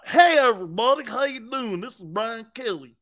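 high, loud mock coach hello; hamming up a coach's hello; mock Brian Kelly greeting. Mocking the coach's greeting to fans, high and loud. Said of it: "Brian Kelly, okay, is from Vermont".

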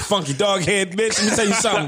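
mock wrestler's promo insult; lightly voiced wrestler calling someone out; The Rock. Co-host imagines wrestler cursing Gayle, lightly imitated promo voice. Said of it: "if The Rock would have came out and said".

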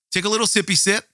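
playful coaxing. Acted. Coaxing listener to sip coffee.

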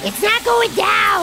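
slow, drawn-out complaint; calling out. Acted. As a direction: call it out slowly from the toilet. Calling from toilet, flush failing.

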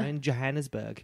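put-on Johannesburg said with a slipped-in South African accent. Reminiscing about meeting in Johannesburg, in a light South African accent. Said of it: "I did a weird accent there".

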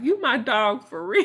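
mock excited text read; excited quoting. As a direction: quote the text loud and high, half crying. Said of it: "we always be texting, like".

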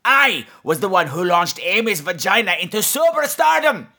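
gargoyle voice bragging then sulking; boastful gargoyle. Acted. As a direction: brag about your glory days as the gargoyle. Gargoyle boasts of past deeds.

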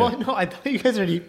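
tipsy rambling, words rushing. Real, not acted. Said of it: "He's drunk".

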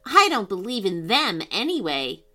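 proud declaration. Acted. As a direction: challenge the hidden voice confidently. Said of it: "Amelia declared with pride".

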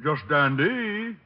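lightly hammed hick voice; hillbilly put-on. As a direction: keep up the country bumpkin act. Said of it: "old Harold Appleknocker is gonna show up".

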